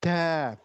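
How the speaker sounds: DA with air leaking from the d; faulty breath-released da; wrongly hissed d. Shown as a demonstration. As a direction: let the d of da hiss.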